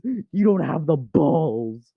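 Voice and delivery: slow, theatrical quoted challenge; drawn-out taunt. Pretend. Owner quotes a reference at the cat, taunting slowly. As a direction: stretch the dare out like a famous line.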